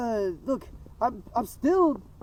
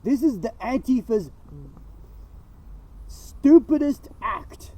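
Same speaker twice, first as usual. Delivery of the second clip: wild unhinged ranting. Real, not acted. Agitated rant about Antifa.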